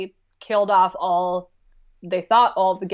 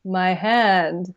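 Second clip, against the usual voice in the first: deadpan. Retold or imitated. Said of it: "he just kinda looks, and he's like".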